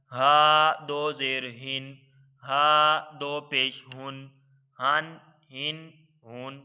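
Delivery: slow, even chant of letter, harakat, sound; Qaida spelling drill. Shown as a demonstration. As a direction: sound it out syllable by syllable for the class. (قاعدہ کی ہجے کی مشق، ٹھہر ٹھہر کر)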